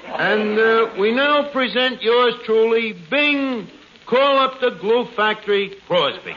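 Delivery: hammed-up variety show announcer; old radio show. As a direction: announce the act with showman flair. Mock music hall announcer.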